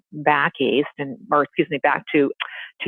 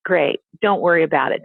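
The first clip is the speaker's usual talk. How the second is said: sarcastic son; 4 semitones higher than usual. Retold or imitated. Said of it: "And the son said".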